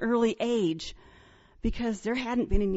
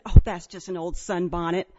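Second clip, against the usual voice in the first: lower, offhand dismissal; 4 semitones lower, 4 dB louder than usual. Retold or imitated. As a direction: casually shrug it off. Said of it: "like it was nothing".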